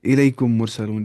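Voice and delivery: slow, with مرسلون's doubled m held in the nose; ghunnah example. Shown as a demonstration. Teacher reciting a Quran example of idgham with ghunnah. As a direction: stretch the merged m with nasal hum. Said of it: "for example مثال دے سکتے ہیں".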